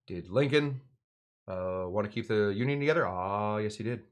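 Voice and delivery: teacher's accent lightly imitated, asking and answering himself; self-answered question in a history teacher's mild accent; Bob Heaps accent. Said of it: "my Bob Heaps accent".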